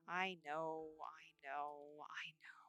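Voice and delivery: breathy whisper of resignation; hushed, defeated whisper. Real, not acted. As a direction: let it fade to a whisper. Fading into sad resignation.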